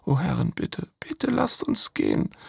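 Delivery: pleading. Acted. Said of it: "Die Sklavin".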